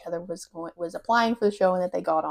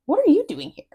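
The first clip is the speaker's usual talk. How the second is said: mock shocked girl; 9 semitones higher, 3 dB louder, faster than usual. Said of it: "she's like".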